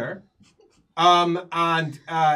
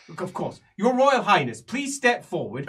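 somewhat testily; 3 semitones higher, 4 dB louder than usual. Acted. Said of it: "he says somewhat testily".

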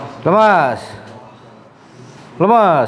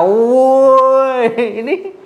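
mock yell; 9 semitones higher, much slower than usual. Therapist teasing the patient about yelling: high mock shout. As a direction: pretend to shout at him. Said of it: "Teriak-teriak".

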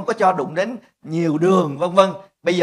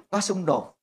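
usual speaking voice

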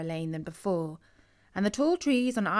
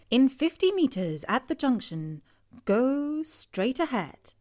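gps voice; 4 semitones higher than usual. Acted. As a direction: read it like a car navigation prompt. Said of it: "said the sat-nav".

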